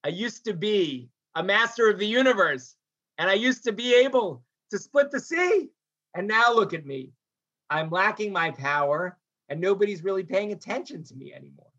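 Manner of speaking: wistful boast sinking into dejection; retold lament over lost power; deep anxiety. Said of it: "this sort of deep anxiety of".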